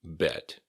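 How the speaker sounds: "Bet." ending on a released T; a careful "Bet." with its T sounded; final T kept. Shown as a demonstration. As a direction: finish "Bet." on an audible T. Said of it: "keep that T at the end".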